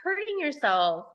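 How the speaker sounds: mock harsh self-talk; negative self-scolding. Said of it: "my first thought was I was really negative".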